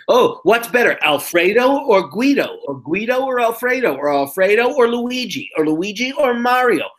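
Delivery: high, sing-song mimicked bickering; volley the options back and forth, pitched high; exaggerated imitation of a silly debate; mock arguing. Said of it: "arguing over what Italian name".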